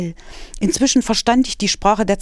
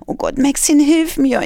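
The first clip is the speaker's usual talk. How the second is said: higher and louder, frightened wail; 8 semitones higher, 5 dB louder than usual. Acted. Kitten wails to Max in fear of the doctor. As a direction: cry out for help in fear. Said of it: "jammerte ich".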